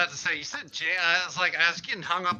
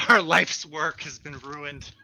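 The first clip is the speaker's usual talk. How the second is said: mock lament; 2 semitones lower, slower than usual. Imagined creators lamenting their legacy.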